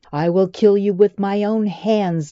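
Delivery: loud furious threat; declared. A narrator's reading. Brutus threatening the girl, loud and furious. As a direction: vow it with rage. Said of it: "declared Brutus".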